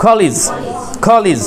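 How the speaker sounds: কলেজ ending in লিজ, like kolij; কলেজ pronounced kolij, not kolej; college with lij ending. Shown as a demonstration. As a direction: say কলেজ with a lij sound at the end. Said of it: "উচ্চারণটা হয় লিজ".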